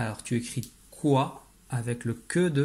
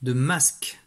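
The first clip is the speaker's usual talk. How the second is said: name the word masque clearly; dictation phrase; slower than usual. Shown as a demonstration. Teacher naming the model word for the sound, clear. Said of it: "utilises le que".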